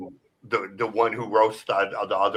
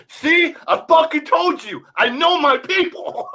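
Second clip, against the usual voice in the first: high, laughing mock triumph; gloating comedian; 6 dB louder than usual. Comedian taunting the crowd after guessing right, high laughing gloat. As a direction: crow it like you just proved everyone wrong.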